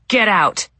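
retold roar. Ma tells her child how she kept him out, retold roar. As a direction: recall roaring someone out of the room. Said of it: "and I roared".

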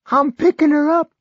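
put-on high, loud, strained old man; a feverish old man pushing through; sick old man. A narrator's reading. Barry voiced.

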